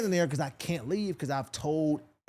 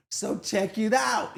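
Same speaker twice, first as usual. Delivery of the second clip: Mike impression; 5 semitones higher, slower than usual. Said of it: "You know, Mike be talking".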